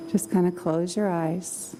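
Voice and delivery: calm, slow meditation voice; guided meditation. Acted. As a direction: guide them gently into calm.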